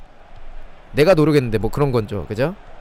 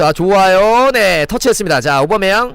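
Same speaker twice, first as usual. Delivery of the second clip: raised, quickfire match commentary building to the goal; excited goal call; 4 semitones higher, 3 dB louder than usual. Real, not acted. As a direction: call the attack up to a big "goal" cry.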